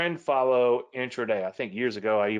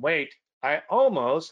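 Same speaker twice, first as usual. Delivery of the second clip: almost drawn out slow, higher and louder; stress on almost; 4 semitones higher, 4 dB louder, slower than usual. Shown as a demonstration. Trader stressing his key word to viewers, almost slowed and raised. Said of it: "almost is a key word in that sentence".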